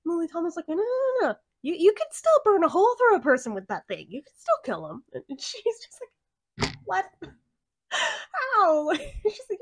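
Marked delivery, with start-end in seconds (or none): 0.7-5.0 quick, eager, higher-pitched reassurance; excited insistence. Retold or imitated. Excited friend insisting gun works. 6.8-8.9 high, sharp what, how; baffled high-pitched question; stunned disbelief. Retold or imitated. Stunned reaction to flare gun.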